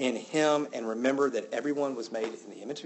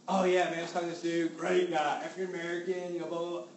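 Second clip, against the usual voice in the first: casual chat; 4 semitones higher than usual. Retold or imitated. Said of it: "clarify that I was talking".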